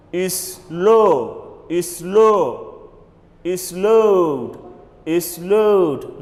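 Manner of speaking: "load" as one syllable ending in D; model pronunciation. Shown as a demonstration. Teacher drills the class, carefully. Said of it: "You pronounce it as is load".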